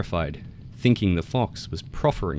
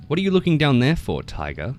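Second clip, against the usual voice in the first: high, loud and quick mocking call; taunting frog; 7 semitones higher, 6 dB louder than usual. A narrator's reading. Frog calls down to the tiger, high, fast and mocking. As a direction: crow down at him like a cocky little frog.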